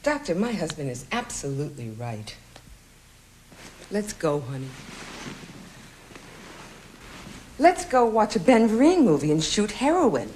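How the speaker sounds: high-pitched, seething agreement with husband; angry wife. Acted. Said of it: "I'm sensing anger".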